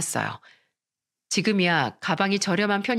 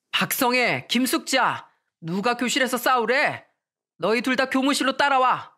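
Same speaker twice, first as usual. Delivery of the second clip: raised, indignant teacher's reprimand; stern scolding; 4 semitones higher than usual. Acted. Teacher breaking up a classroom fight, scolding sternly. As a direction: order the fighters out sharply. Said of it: "호통을 치며 말씀하셨습니다".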